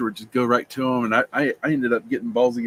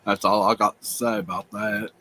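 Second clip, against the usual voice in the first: Forrest Gump line; 2 semitones lower than usual. Retold or imitated. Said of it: "He might have been over there with Forrest".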